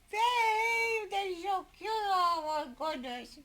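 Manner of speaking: high-pitched gushing squeal; gushing excitement. Retold or imitated. Wife retelling how thrilled she was that he knew, gushing high. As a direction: gush it high, drawn out and adoring. Retold delighted reaction to babe.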